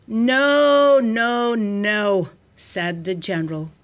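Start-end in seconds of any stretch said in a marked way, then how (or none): 0.1-2.3 loud first word, descending in steps; emphatic refusal. A narrator's reading. General rejecting the soldier's idea, emphatic refusal. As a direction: refuse firmly, starting high and loud and stepping down.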